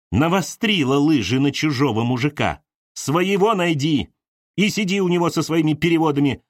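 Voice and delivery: Galya claiming her man; mild shout. Acted. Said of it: "Она кричала очень громко". (Галя кричит, ревниво)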